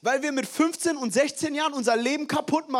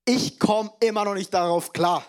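laughing disbelief; 5 dB louder than usual. Real, not acted. Laughing at toilet paper panic.

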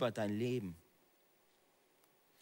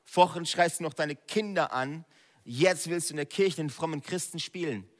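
accusing enemy voice; 4 semitones higher, 5 dB louder than usual. Acted.

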